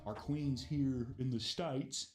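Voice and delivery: slow, mock-grand British accent; lightly put-on British accent, drawn out. Host reads a script aside to cohost, in a British accent. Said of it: "I don't know why I had a British accent there".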